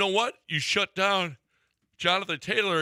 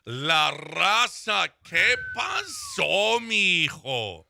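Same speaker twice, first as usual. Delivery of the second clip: drawn-out greeting; 2 semitones higher, 3 dB louder, much slower than usual. Acted. Host greets caller La Raza.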